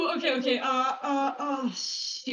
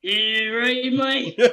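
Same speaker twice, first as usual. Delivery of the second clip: put-on Australian accent. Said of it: "becoming more Australian".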